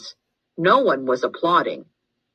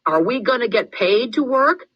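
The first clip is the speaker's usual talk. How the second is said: silly grinning question; 8 semitones higher than usual. A narrator's reading. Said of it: "He knew he was being silly".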